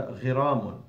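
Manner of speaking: "غرام" as ghi-ra-mun; short i after the gh in "غرام"; ghain with kasra. Shown as a demonstration. Teacher recaps the word on its own, "غرام" said ghiramun. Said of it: "when it's on itself".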